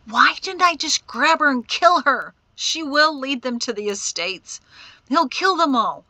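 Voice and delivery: high, loud, anguished outburst; tearful frustration. A narrator's reading. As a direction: rage at yourself in despair. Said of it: "Tears of frustration and anger".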